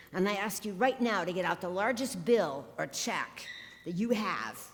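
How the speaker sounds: emphatic TV preacher's fundraising pitch; televangelist spiel. Acted. Quoting a TV healer asking followers for money, mock televangelist. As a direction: press the appeal like a healer selling miracles. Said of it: "one of his spiels went like this".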